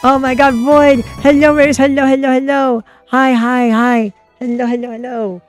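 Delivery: high, excited squealing greeting; bubbly, high-pitched hello to raiders; cute anime streamer. Real, not acted. Greeting raid viewers excitedly.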